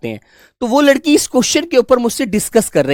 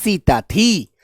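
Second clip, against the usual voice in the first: slow, word by word, as a teacher's example; spelled-out slow classroom example; much slower than usual. Shown as a demonstration. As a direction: dictate राम की पत्नी सीता थी slowly. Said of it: "जैसे मैं एक example दूं".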